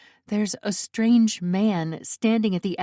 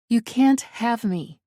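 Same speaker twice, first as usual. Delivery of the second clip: higher, slow, firm refusal; defiant; 4 semitones higher, 4 dB louder than usual. A narrator's reading. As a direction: stand your ground, word by word. Captive defies the intruder.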